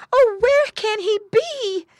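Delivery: high, slow, loud mother pig wail; frightened cry. A narrator's reading. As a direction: wail out in worry for your child. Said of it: "cried Missus Pig".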